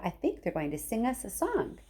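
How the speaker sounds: softly telling Charlie about the song; hushed. Acted. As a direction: murmur it so only the boy hears. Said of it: "whispered Grandpa Joe".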